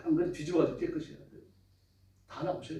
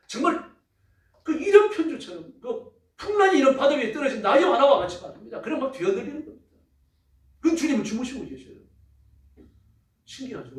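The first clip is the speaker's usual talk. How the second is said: rising, louder preacher storytelling; fervent preaching; 7 semitones higher, 4 dB louder than usual. Acted. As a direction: paint the storm with urgency. Preaching at full force.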